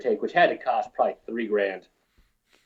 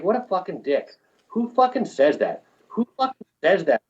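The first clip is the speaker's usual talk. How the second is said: indignant inner rant; 7 semitones higher than usual. Retold or imitated. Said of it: "And I was like".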